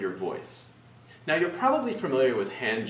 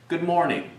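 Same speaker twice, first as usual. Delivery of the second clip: confident greeting, pitch dropping on "morning"; falling ending; 3 semitones higher, 4 dB louder than usual. Shown as a demonstration. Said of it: "Again, fall to one".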